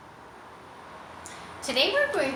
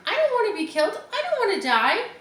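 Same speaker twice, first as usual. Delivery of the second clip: terrified piglet; frantic fear; 9 semitones higher than usual. A narrator's reading. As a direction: panic while asking for truth. Wilbur panicking.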